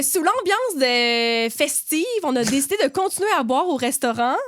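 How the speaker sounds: measured read-aloud of a listener's anecdote; light narrator's delivery; story reading. A narrator's reading. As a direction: read the submitted story out neatly.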